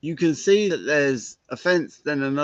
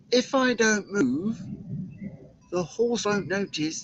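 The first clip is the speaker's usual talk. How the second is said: mock spellbound hush; 5 semitones higher, 5 dB quieter than usual. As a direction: hold still and breathe the words out. Spell while riding past cows.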